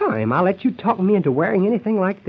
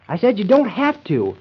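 exasperated; 4 semitones higher, 5 dB louder than usual. Acted. Irritated at fussing partner.

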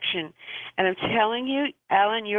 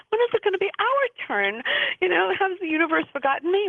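whiny complaint; 9 semitones higher than usual. Retold or imitated. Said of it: "are like".

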